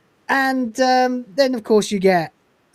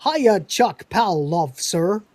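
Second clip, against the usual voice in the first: blending-in Northern greeting; 3 semitones higher, much slower than usual. Retold or imitated. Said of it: "Crichton's trying to blend in".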